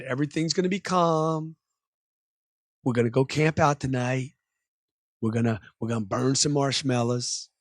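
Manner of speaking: relaxed, low-key river guide; calming guide. Acted. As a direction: ease everyone down after the excitement. Guide calming rafters after the rapids.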